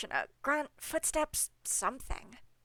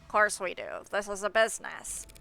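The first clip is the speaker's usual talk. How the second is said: nasal gatekeeper voice. Acted. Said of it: "the most nasal voice possible".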